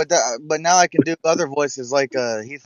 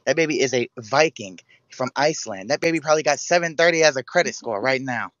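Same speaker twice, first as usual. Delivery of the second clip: lightly voiced comedian impression; Cat Williams; 3 semitones lower than usual. Jailed man mocking the baby's looks to its mother, lightly voiced impression. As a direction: imitate a stand-up comic heaping on disbelief. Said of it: "I could do Cat Williams".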